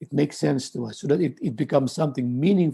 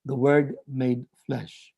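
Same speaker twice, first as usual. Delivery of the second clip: slow quoted formula; slower than usual. Shown as a demonstration. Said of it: "the expression that is most associated".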